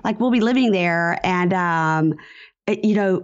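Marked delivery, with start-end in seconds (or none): 0.0-1.2 much higher, airy mock of Nicole; lightly mocking a careless mother; clueless shrug. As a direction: toss it off like you've never thought about it. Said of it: "And she was like".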